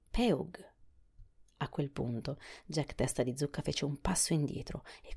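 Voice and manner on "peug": shouted. A narrator's reading. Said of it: "gridò".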